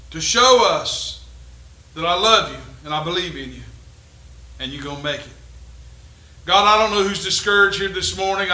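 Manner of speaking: earnest pastor praying aloud over the congregation; heartfelt public prayer. Real, not acted. Leads closing prayer.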